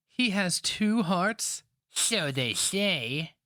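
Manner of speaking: put-on high, slow, awed girl's question; young woman. A narrator's reading. Girl asking the old woman about two hearts, slow and awed. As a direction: ask it in hushed wonder.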